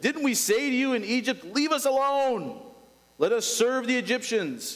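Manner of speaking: high, pleading cry of frightened people; panicked Israelites. Acted. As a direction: read it as terrified Israelites crying to Moses. Israelites crying out in terror.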